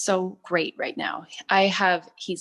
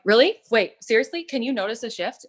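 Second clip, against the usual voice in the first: surprised disbelief; 4 semitones higher than usual. Retold or imitated. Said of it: "I'm like".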